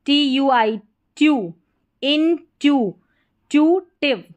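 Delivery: ट्यू, इन ट्यू, ट्यूटिव in separate chunks with pauses; slow, piece by piece. Shown as a demonstration. Teacher assembles a word for learners, chunk by chunk. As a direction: build ट्यूटिव slowly, pausing between pieces.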